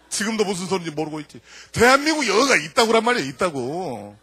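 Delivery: normal talking voice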